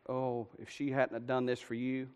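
hushed, low and grave; restrained, soft divine rebuke; quiet warning. Acted. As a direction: let the threat land very softly. Lord's warning repeated softly.

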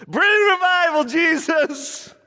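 high, put-on pious plea, gently mocking; mock prayer. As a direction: parody people who want revival without faith. Mocking half-hearted prayer for revival.

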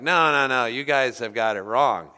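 loud, bossy know-it-all insistence; mock American bluster. A preacher voicing brash Americans, loud and bossy. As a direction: lecture the Australians like you own the world. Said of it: "we're like".

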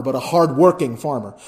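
hard-working pressed against just a farmer; stress on hard-working. Shown as a demonstration. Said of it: "you put the inflection on the word hard-working".

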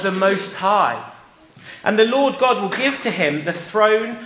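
slow, solemn Bible reading; scripture reading. Acted. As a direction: read it slowly like scripture. Reads Bible verse to children.

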